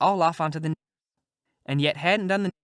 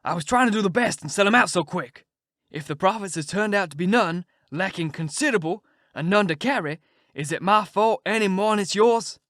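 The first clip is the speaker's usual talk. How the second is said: louder and higher, defensive and bitter; snarling retort; 4 semitones higher, 5 dB louder than usual. Acted. The king snapping back at the Duke over lost profits, angry snarl. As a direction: throw the blame right back at him. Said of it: "The king snarls around on him and says".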